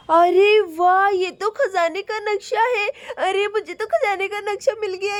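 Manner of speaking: delighted gasp of discovery; a mild happy wow; excited. Acted. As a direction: burst out with joy at the find. Finds treasure map.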